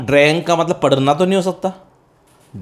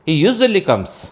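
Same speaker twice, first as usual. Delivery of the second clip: slow model sentence; 3 semitones higher, much slower than usual. Shown as a demonstration. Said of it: "तो आप present habit के लिए तो वही बोलें".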